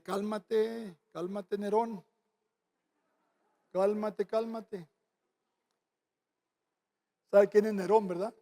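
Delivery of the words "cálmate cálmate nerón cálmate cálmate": soft, soothing "cálmate"; calming voice. Retold or imitated. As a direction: settle him down gently. Pastor calming angry disciple. (voz calmada y suave)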